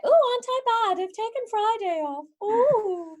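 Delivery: mock-naughty office worker, pitched high and bright with glee; smug office worker. Mocking a London office worker skipping Friday, hammed-up glee. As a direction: play a London office worker pleased with her day off. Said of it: "then be like".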